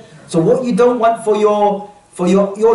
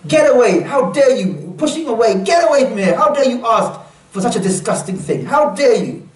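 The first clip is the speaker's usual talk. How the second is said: half-acted rebuke, pitched higher; imagined angry crowd; 4 semitones higher than usual. Preacher voicing the crowd scolding the young man, mock anger. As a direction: drive him off like the outraged gathering. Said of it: "we can imagine what was said".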